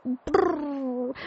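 high trilled shiver, "brrr"; shivering brr. Acted. Tilly wakes to find winter has come, shivering. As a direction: trill the lips as if freezing.

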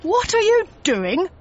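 high, loud challenge; outraged shout. A narrator's reading. Security guard catches Logan taking a painting, shouting. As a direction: shout it in alarmed disbelief. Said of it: "shouted the security guard".

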